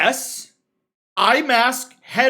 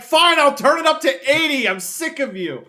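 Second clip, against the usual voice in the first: mock exasperation; 5 semitones higher than usual. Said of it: "And I'm like".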